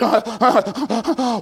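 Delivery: acted shuddering, broken gasps; struggling gasps before crying out. Dying Charlie sitting up in bed, acted struggling gasps. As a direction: heave for breath before the cry. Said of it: "he just cried out".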